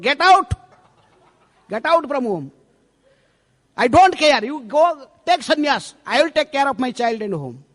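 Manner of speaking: a raging wife driving her husband out; furious wife. Acted. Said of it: "she is now like Chandi".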